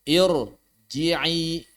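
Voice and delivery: IRJI'I with a dark, heavy r; thick r. Shown as a demonstration. Teacher models ra after false kasrah, thick r. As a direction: thicken the r in "Irji'i" and hold the last vowels. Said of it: "maka dia bukan irji'i tapi irji'i".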